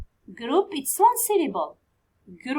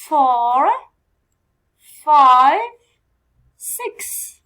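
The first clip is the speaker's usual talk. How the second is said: counting, each number louder up to a call; teacher counting vowels, louder with each number; counting aloud; 8 dB louder, much slower than usual. Shown as a demonstration. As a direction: build to a loud count of five. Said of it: "counting vowels aloud".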